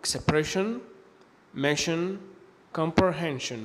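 "expression", "mission", "comprehension" ending in shen; sion as shen. Shown as a demonstration. Teacher giving examples after a consonant, "expression", "mission", "comprehension" with shen. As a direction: model each word with sion as an unvoiced sh. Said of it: "ينطقوا شن".

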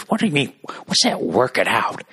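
half-hearted angry old-guy imitation; puzzled, cranky echo of the neighbor; imitating yelling neighbor. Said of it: "this guy's fucking yelling at me".

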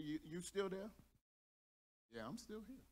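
soft, slightly low, half-asleep check-in; hushed mock-sleepy phone talk; drowsy phone murmur. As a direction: imitate a couple nodding off on the phone. Acted drowsy late-night phone exchange.

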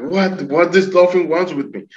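high, startled retold question; acted bewilderment. Man finds dolphin following him ashore, high bewilderment. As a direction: ask it high-pitched, baffled.

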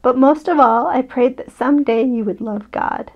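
gentle bedtime story reading; story narration. A narrator's reading. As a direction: read it like a picture book to a child. Reads picture book aloud.

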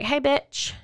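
lightly put-on gossip-call greeting; chatty phone greeting.

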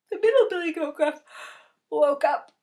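sudden loud narration. A narrator's reading. Sudden waking.

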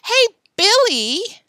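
sudden high, loud call; slow, wavering hail to a friend; hearty, quavering. A narrator's reading. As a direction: burst out with forced heartiness. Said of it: "burst out Tom suddenly in a hearty, quavering voice".

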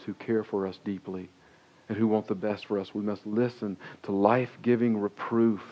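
sermon delivery with rising force; preaching. Acted. Pastor urging the congregation to listen, preaching.

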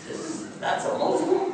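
high, breathy can't-believe-it; shocked double take; stunned disbelief. Retold or imitated. Shocked seeing the bald man.

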